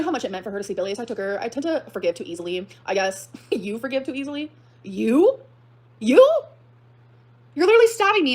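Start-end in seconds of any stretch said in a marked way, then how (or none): 3.5-6.4 laughing disbelief climbing high and loud; incredulous. Real, not acted. Answering ex's claim of being forgiving, incredulous. 7.5-8.3 high, loud indignant protest; outraged. Real, not acted. Confronting ex over being hurt, outraged.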